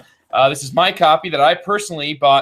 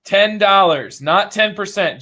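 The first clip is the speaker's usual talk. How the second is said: infomercial voice; 3 semitones higher, slower than usual. Pretend. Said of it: "You got the infomercial voice on".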